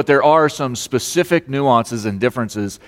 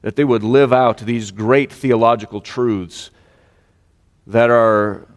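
prayer; 3 semitones lower than usual. Real, not acted. Pastor leading the church in prayer after a loss, reverent. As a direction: pray aloud in a subdued, reverent voice.

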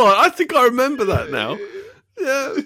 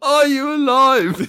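drawn-out, higher-pitched query; mock incredulous question; 4 semitones higher, 3 dB louder, slower than usual. Quoting a daft question to co-host, mock incredulous. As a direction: stretch it out in mock disbelief. Mock quote of the funny line.

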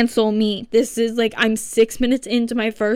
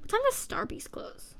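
whispered question; 13 semitones higher, 11 dB quieter than usual. Real, not acted. Quick unvoiced self-question.

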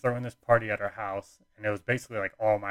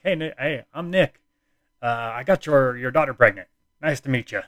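loud, high-pitched mock greeting; hammed-up cheery hello, pitched up and loud; brash introduction; 4 semitones higher, 9 dB louder than usual. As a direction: introduce yourself too boldly, voice up. Retold brash introduction to girlfriend's dad.

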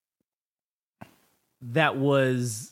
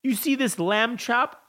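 pompous Napoleon; 5 semitones higher than usual. Retold or imitated. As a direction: play up Napoleon's pompous lamb chop decree. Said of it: "in the trailer where he's like".

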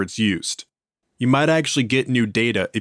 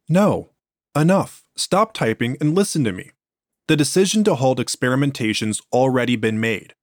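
angry shout; 2 semitones higher than usual. Acted. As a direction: shout her down, then command. Boss cuts off researcher's plea.

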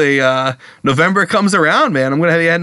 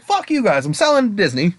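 mock spiteful Lucas; 6 semitones higher than usual. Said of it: "He's like".

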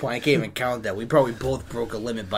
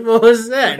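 loud; 10 semitones higher, 11 dB louder than usual. Retold or imitated. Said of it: "and he goes".

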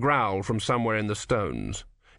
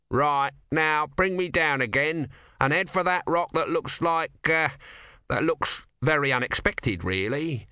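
lightly voiced bossy god, pitched up; higher voice, hesitating midway; bossy small god; 5 semitones higher than usual. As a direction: give orders, then falter at an odd sight.

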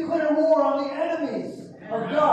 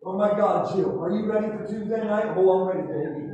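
lower, chatty mimic of church ladies; a hint of a gushing church lady; mock churchgoer gossip; 4 semitones lower than usual. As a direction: play two complacent churchgoers, lightly mocked.

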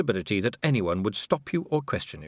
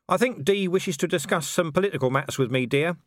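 smoothly polite, slightly raised pitch; 7 semitones higher than usual. A narrator's reading. Husband steering his wife off, mildly smooth. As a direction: ease her away politely. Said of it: "said Vimes smoothly".

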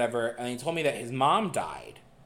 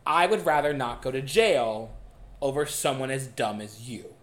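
quiet menacing threat; slower than usual. Retold or imitated. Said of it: "I remember this verbatim".

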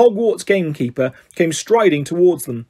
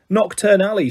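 grim; 4 semitones higher than usual. Acted. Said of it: "said Hagrid grimly".

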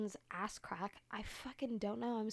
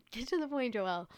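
raised-voice telling-off of herself; self-scolding; 2 semitones higher, 7 dB louder than usual. Real, not acted. Storyteller scolds herself for rambling, exasperated and loud. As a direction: push it louder, with mild exasperation.

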